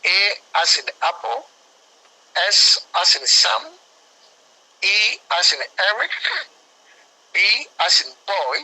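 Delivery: spelling it out. Shown as a demonstration. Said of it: "That is A".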